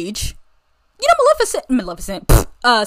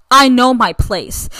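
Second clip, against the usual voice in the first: slow, louder, each word pressed; quoting Mulan with slow weight; emphatic quote; 6 dB louder, slower than usual. Retold or imitated. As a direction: lean on I know my place, slowly. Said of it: "she literally says".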